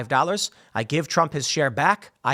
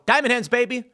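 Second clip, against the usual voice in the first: crypto bro; 8 semitones higher, faster than usual. Retold or imitated. Investors refuse to sell.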